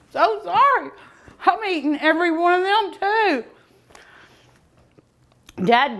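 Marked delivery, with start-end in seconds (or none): 0.1-3.4 giddy apology. Real, not acted. Giggly apology for gorging on samples.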